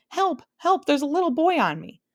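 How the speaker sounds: high, loud panicky cries; shouting for help. A narrator's reading. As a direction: squeal for help from the ground. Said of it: "laid there shouting".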